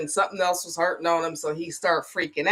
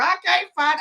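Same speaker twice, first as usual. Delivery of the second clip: imitating panicky son; 11 semitones higher than usual.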